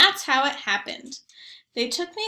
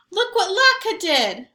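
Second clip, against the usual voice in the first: put-on louder, higher boy's complaint; upset boy; 7 semitones higher, 8 dB louder than usual. A narrator's reading. Zach complaining to family about Latka, louder higher kid voice. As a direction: complain like a kid whose gift got wrecked.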